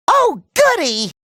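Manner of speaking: high, giddy cartoon delight; gleeful. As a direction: squeal it with childlike glee. Delighted reaction.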